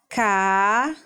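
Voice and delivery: CA-NU-DO with long pauses between syllables. Shown as a demonstration. Teacher dictating first syllables to copy, CA-NU-DO widely separated. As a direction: dictate CA-NU-DO one isolated syllable at a time. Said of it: "copiar a primeira sílaba".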